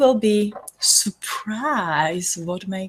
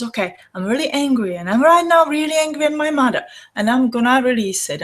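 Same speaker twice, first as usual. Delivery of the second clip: angry; 6 semitones higher, 6 dB louder than usual. Pretend. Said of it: "And so you says".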